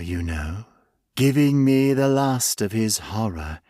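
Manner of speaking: a hint of a sinister creature reminiscing; menacing creature. Creature speaking to its captive.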